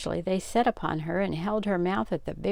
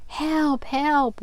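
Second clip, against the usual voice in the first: high, loud mock cry for help; hammed-up child's wail, much higher; 10 semitones higher, 5 dB louder than usual. A narrator's reading. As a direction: squeal it like a scared little sister. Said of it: "wailed Hetty".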